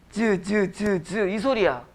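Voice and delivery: "즈, 즈" slowly sounded as a buzzing z; drawn-out "즈" sound demo. Shown as a demonstration. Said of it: "지읒은 무슨 소리야". (지읒 발음 시범)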